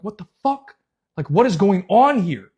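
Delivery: stunned questioning, lightly replayed; retold bewilderment. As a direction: act out baffled disbelief. Retold shock at new surroundings.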